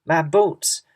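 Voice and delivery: high, loud wail about his boots; fussy creature mourning his boots; dismayed cry. A narrator's reading. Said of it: "cried the centipede".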